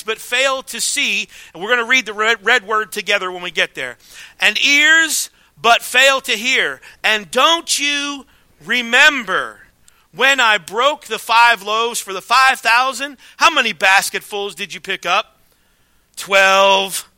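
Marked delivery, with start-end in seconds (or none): 4.4-15.4 slow reading. Acted. Pastor reads Jesus' words slowly. 16.1-17.1 teacherly answer. Pretend. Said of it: "Like he's teaching them a lesson".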